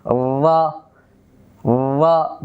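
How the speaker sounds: "ওয়া" said as "ra" with a vibrating tongue tip; trilled ra. Shown as a demonstration. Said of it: "কম্পনের সাথে যেন আওয়াজটা হয়". ("ওয়া"-কে জিভের আগা কাঁপিয়ে "রা" বলা)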